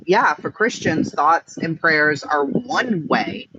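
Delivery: slow, with "one way" stressed; measured pace, weight landing on "one way"; emphasis on ONE WAY. Retold or imitated. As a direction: lean hard on "one way", drawing it out. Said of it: "I put the emphasis on one way".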